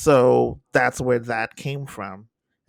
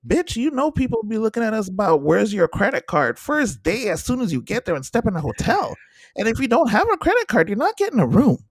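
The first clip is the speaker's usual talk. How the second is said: high, loud sassy lecture, picking up speed; mock lecturing a scammer; 9 semitones higher, 4 dB louder than usual. Host schooling the scammer about credit cards, high sassy scold. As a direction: scold her like you're schooling a con artist, voice way up. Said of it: "I was like".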